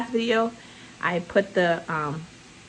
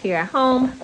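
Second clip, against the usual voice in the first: breathless from rushing around; out of breath; 3 semitones higher, 4 dB louder than usual. Real, not acted. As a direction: talk while catching your breath. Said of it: "Oh, I'm out of breath already".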